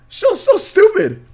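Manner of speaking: slow, high, stretched "so stupid"; dwelling on "so" with a high, slow sneer; drawn-out scorn. Real, not acted. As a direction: drag it out in mock disgust. Ranting about the show.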